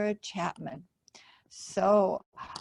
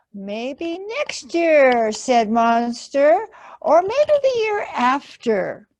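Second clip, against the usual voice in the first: reluctant Monster; 4 semitones higher, 7 dB louder than usual. Acted. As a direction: put it off nervously.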